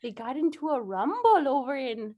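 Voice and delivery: put-on wandering Midwestern mom accent. Mom passing on news of the rumble, wobbly Midwestern accent. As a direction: try a Midwestern accent that slips a little. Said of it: "it's sometimes Wisconsin".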